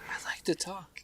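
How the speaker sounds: breathy joking aside, whispered. Pretend. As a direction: whisper it like a confession. Self-mocking aside.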